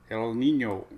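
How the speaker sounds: hammy Spanish accent on El Nino, rolled ny; mock Spanish El Nino. Shown as a demonstration. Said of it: "There's my Spanish accent that I'm not very good at".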